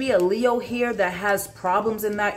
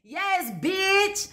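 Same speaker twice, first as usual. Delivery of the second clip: excited outburst; 8 semitones higher than usual. Real, not acted. The reader cheers as the card confirms her call, excited. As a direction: shout the card's word, then crow in triumph.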